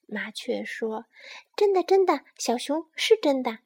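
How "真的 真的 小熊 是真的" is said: hasty placating. Acted. Frightened sparrow hastily gives in.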